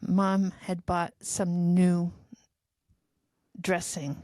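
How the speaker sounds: slow, dragging robot voice; robot low on battery. Real, not acted. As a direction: run down like a dying robot. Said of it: "You just sounded like a robot that was, like, low battery".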